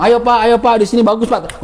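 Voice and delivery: lightly voiced market seller calling out; teacher imitating a broker touting to passers-by; mock street hawker. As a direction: call customers in like a hawker, half-hearted. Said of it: "Ngomong terus-terusan tuh ngomongnya".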